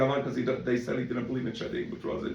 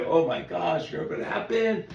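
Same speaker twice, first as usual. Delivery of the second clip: higher, eager retelling of shocking news; breathless gossip about an accident, raised pitch; excited gossip; 5 semitones higher than usual. Retold or imitated. Rabbi acting a neighbor gossiping about an accident, excited and high. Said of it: "you could say".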